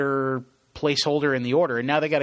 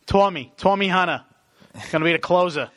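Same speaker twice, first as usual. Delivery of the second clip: put-on Boston accent; 5 semitones higher than usual. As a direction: ham up a Boston sports fan. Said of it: "a nice little Boston bit".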